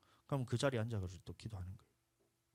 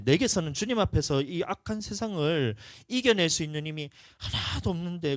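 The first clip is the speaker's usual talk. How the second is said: louder, rising plea to the flock; louder fervent sermon; impassioned preaching; 5 semitones higher, 7 dB louder than usual. Acted. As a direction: press it home with passion.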